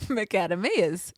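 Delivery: "macadamias" said "muh-KAD-uh-mee-uhs"; "macadamias" mispronounced without a "day" sound; parents' odd pronunciation. Retold or imitated. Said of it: "calling these very well-known nuts".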